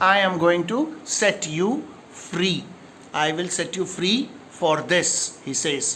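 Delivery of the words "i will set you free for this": normal talking voice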